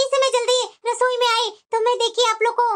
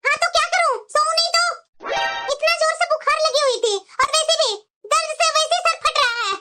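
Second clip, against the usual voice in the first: higher, sulky and defiant; snappish young bride; 3 semitones higher than usual. Acted. Younger daughter-in-law snapping at mother-in-law, picking a quarrel. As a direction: pick a fight on purpose.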